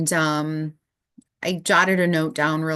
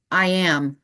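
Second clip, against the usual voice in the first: inner voice; 2 semitones higher, slower than usual. Retold or imitated. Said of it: "what I heard as I was woken up".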